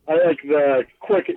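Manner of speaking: speaking through hiccups; a hiccup cutting into the words. Real, not acted. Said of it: "got the hiccups".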